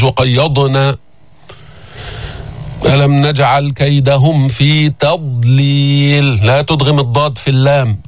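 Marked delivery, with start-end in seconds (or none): 0.0-1.0 وقيضنا with a qalqala echo on the ض; wrong bounced ḍād. Shown as a demonstration. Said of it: "مش". 2.9-6.5 slow chant with تضليل drawn out; tajweed chant; Quran recitation. Shown as a demonstration.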